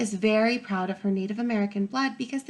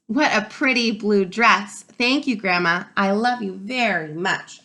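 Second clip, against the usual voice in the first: put-on grateful child; 5 dB louder than usual. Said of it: "I say".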